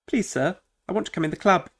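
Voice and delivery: high, pleading mock voice; begging guest. Guest begging the bouncer to let him in, high and pleading. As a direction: beg the bouncer like a desperate clubgoer.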